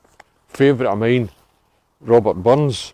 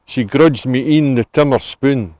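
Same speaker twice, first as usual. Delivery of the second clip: Scots poem recital. Acted. Guide recites Burns to the tour group, measured poem recital. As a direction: read the Burns verse in a measured, lilting recital. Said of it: "this one's called My Ain Hearth Stane".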